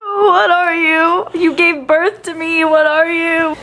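high, loud playful protest; mock outrage. Real, not acted. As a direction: act shocked at your mother. Daughter teasing mom as grandma.

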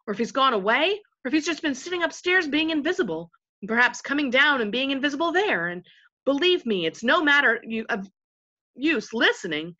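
a hint of the chief invisible voice, emphatic; lightly voiced chief storyteller. Chief voice tells gentlemen his story, lightly voiced spokesman. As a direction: lightly act out a rambling spokesman.

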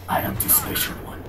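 lightly voiced French accent; a hint of a French accent. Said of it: "my French accent is lacking".

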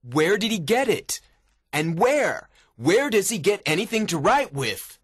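high, emphatic, agitated questions; exasperated warden. A narrator's reading. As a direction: demand answers in bafflement. Warden baffled by the linen.

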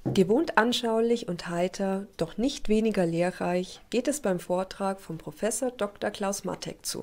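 scripted TV report narration; measured, informative broadcast read; news voice-over. Acted.

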